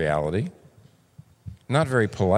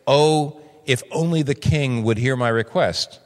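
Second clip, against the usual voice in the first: deferential plea; 3 semitones higher than usual. Shown as a demonstration. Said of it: "You deferentially say".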